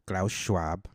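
a hint of German in Klaus Schwab; German-ish name. Naming the WEF founder, lightly German. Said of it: "I don't know why I have to say it like that".

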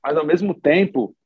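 ordinary talk, nothing marked

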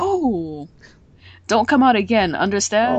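firmly forbid, as if scolding; stern command. Acted. Killua ordering Nanika not to come out, stern.

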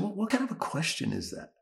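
indignant comeback without shouting; ticked off. Retold or imitated. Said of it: "that's when I got ticked off".

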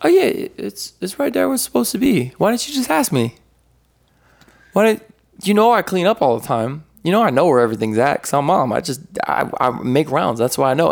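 a hint of a know-it-all mom; mom's voice. Mom telling her son where his keys are, lightly voiced. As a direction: lightly play mom, high then settling. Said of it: "my mom was like".

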